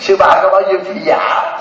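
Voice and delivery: slow hammed-up shout; mock shout. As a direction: call it out slowly, half-joking. Mock questioning the senior nun.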